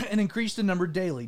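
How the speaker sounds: throaty, needing to clear it; frog in throat. Real, not acted. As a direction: read through a frog in the throat. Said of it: "a frog in my throat".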